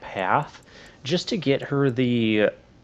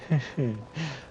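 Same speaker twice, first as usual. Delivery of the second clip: amused laugh; 4 semitones higher, 7 dB quieter than usual. Real, not acted. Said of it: "I can't replicate it very well".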